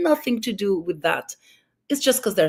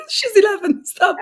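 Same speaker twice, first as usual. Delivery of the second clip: higher and louder, pleading laugh in it; exasperated retort; 13 semitones higher, 6 dB louder than usual. Retold or imitated. To her mom about her eleven-year-old daughter, exasperated and higher. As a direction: tell mom to stop, half laughing. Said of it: "I'm like".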